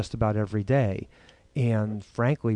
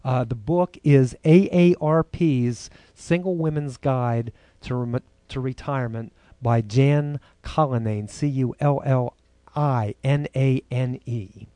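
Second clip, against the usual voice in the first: loud; 7 dB louder than usual. Real, not acted. Hurrying before cut-off.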